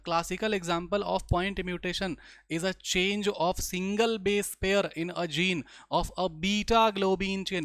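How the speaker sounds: slow, measured reading of English text; textbook read-aloud. Acted. Teacher reads a textbook line to the class, slow read-aloud. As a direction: read it out slowly, word by word.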